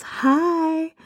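high, drawn-out mock greeting with a big smile; mom's big-smile hi. Mom greets the boy walking behind the pew, imitated high smiling hi. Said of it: "waves at him with this big smile and says".

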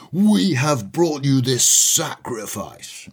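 slow, solemn ceremonial voice, lightly done; pompous cult leader. Retold or imitated. Daniel presenting the sacrifice to the demon, slow solemn intoning. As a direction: intone it like a grand ritual, slowly. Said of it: "Daniel says".

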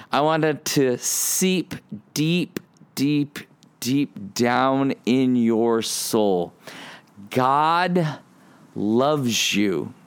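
slow, drawn-out sincere plea; preacher urging listeners, slow and earnest. Acted. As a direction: let it sink in slowly. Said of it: "get this phrase in your head".

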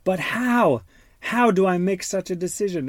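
a hint of a torn little boy; fretting boy. Father voices Jameson torn before the wedding, lightly fretting. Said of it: "He's like".

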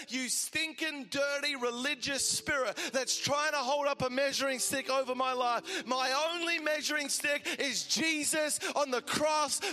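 loud, slow spiritual rebuke; rebuking the spirit. Acted. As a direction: command the spirit to back off, loudly.

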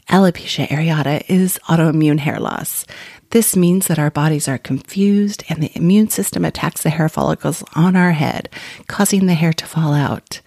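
lightly voiced sultry whisper, fading to breath; a hint of a seductive hush into the lens. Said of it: "whisper in her sultry voice".

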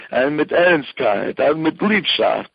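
each word slowed right down; slow and earnest. Shown as a demonstration. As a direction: savour each word with devotion. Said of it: "you say it with love".

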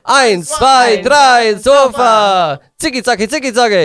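loud, high call-out to the crowd; rally the room into the cheer; party cheer. Acted. Host rallying co-hosts into the Zicki Zacki cheer, loud and high.

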